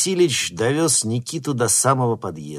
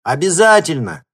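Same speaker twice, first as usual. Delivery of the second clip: loud, raised reply; shouting back; 9 semitones higher, 11 dB louder than usual. A narrator's reading. Nikita shouting back to grandma from the car. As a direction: call it back across the yard. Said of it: "крикнул в ответ Никита".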